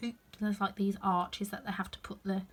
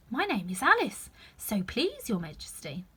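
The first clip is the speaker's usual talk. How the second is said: polite. Acted. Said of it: "said Alice very politely".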